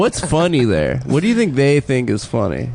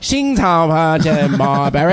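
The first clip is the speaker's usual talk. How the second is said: slow, higher fake Chinese gibberish; hammed-up fake Chinese, slow; mock Chinese translator; 4 semitones higher, slower than usual. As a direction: parody an interpreter in made-up Chinese. Mocking the show's translator.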